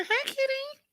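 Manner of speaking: high sweet cat call; soft high calling voice. Shown as a demonstration. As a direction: call the kitty in a high coo. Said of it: "In that high voice".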